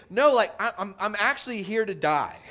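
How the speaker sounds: laughing Jesus. Retold or imitated. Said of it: "And Jesus is saying".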